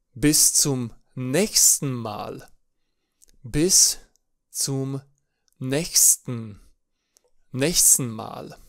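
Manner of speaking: slowly, broken into words; German bis zum nächsten Mal. Shown as a demonstration. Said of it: "Mai avem apoi". (bis zum nächsten Mal rostit rar, pe bucăți)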